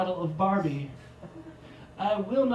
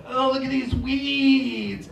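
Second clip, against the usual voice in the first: mock gloomy; 3 semitones higher, slower than usual. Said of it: "and I'm like".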